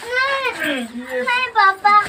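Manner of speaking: high, slow, loud begging no; tearful plea. Acted. Daughter begs her father not to hit, slow tearful wail. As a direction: drag out the plea as if close to tears. Daughter pleads during beating.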